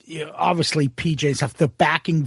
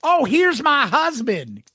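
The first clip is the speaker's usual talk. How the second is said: imitated Texas accent, higher and drawn out; slow Texas drawl, pitched up; Tracy; 6 semitones higher, slower than usual. Tracy brushing off a pickup by presenting her husband, imitated Texas accent. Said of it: "Tracy's got a nice Texas accent".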